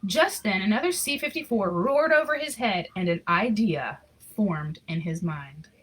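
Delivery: lively storybook reading voice; story narration. A narrator's reading. Reading a Christmas picture book aloud, storyteller voice. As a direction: read the story warmly to an audience.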